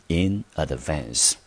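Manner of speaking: "in advance" said as a careful model phrase; pronunciation demo. Shown as a demonstration. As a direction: model "in advance" clearly for learners. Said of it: "英文就念成". (示范念in advance，咬字清楚)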